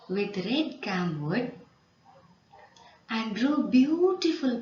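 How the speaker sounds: slow, phrase-by-phrase story reading; read-along narration. Shown as a demonstration. Teacher leads pupils reading the passage, slow measured read-along. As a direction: read it out in short chunks for pupils to follow. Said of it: "Read with me, loudly and energetically".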